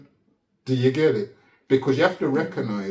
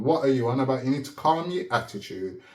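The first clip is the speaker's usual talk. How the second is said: level, unbothered questioning; calm retort; 2 semitones lower than usual. Retold or imitated. Prisoner calmly telling the officer to calm down, level and cool. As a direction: keep it cool and steady, talking him down. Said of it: "asking the man".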